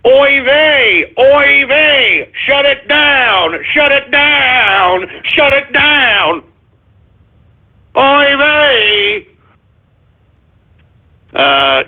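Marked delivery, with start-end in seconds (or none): 0.1-9.3 mock stereotype voice. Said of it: "Trump under Jew control".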